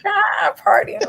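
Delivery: high, loud whooping partygoer; mock party shout. Host imitating Atlanta partiers jumping out, loud whoop. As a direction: jump out yelling like a reveler.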